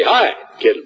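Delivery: jovial hello to a shy student; cheery greeting. Retold or imitated. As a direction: call out a hearty hello. Greeting a student to embarrass him.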